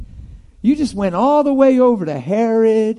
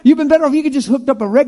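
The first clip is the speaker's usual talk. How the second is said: loud, high preaching burst; preaching shout; 6 semitones higher, 7 dB louder, faster than usual. Real, not acted. Preacher calling out to the congregation, loud and high.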